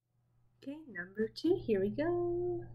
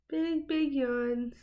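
slow, stretched doting coo; 4 semitones higher, much slower than usual. Real, not acted. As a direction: draw it out like cooing at a pet. Cooing over yawning dog.

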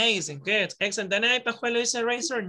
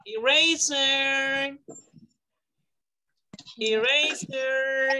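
slow model word; 2 semitones higher, much slower than usual. Shown as a demonstration. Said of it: "teacher models word slowly for class".

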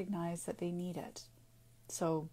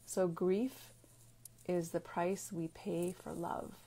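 slower and softer, letting each word land; slow, deliberate quote; 3 dB quieter, slower than usual. Shown as a demonstration. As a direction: repeat the quote gently so it sinks in. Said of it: "That is a quote".

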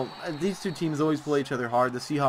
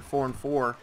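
yawning; 3 semitones lower, 3 dB quieter than usual. Real, not acted. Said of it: "Excuse me, I just yawned".

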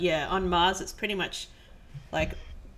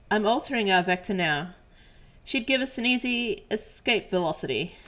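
voice changer; 3 semitones higher, 3 dB louder than usual. Acted. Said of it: "let me just get my voice changer".

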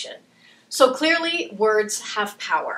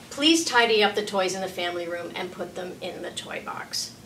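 softer, even instruction; calm direction; 2 semitones lower, 4 dB quieter than usual. Shown as a demonstration. Parent giving a calm direction to a child, soft. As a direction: give the direction kindly.

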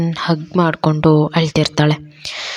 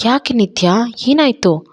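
alarmed, rising to a high pitch; worried surprise; 7 semitones higher than usual. Acted. Sharath asks the crying Nitya what happened, alarmed.

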